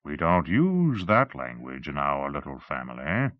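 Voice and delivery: condescending, cooed scolding; cooing reproof. Acted. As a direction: coo it as to a naughty child. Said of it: "he cooed".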